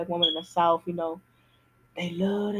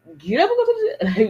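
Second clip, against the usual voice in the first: mock whine, louder, dragging; whiny reluctance; 3 semitones higher, 5 dB louder than usual. Answering friends who nag about gym, mock whine. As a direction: groan it like a lazy kid. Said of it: "I'm like".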